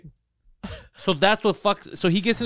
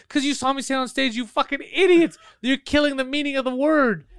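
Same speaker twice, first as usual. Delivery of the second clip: retold angry rant; 9 semitones higher than usual. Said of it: "And I started yelling".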